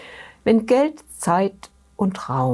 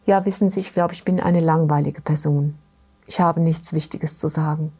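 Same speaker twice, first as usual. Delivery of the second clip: understated sadness, voice sinking lower; very sad; 3 semitones lower than usual. Retold or imitated. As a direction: quote her mildly downcast, dropping in pitch. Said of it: "Und dann sagt sie ganz traurig".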